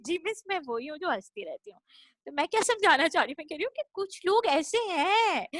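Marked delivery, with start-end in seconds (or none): 0.1-1.8 meek admission. Retold or imitated. Grown pupil answers her old teacher, softly sheepish. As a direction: own it quietly, like a caught pupil. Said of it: "मैंने कहा".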